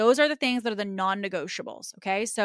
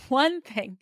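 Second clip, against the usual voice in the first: "One thing" said slowly, higher; slow and simple; 4 semitones higher than usual. Shown as a demonstration. Coach drumming one priority into students, slow and simple. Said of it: "very slow and very simple".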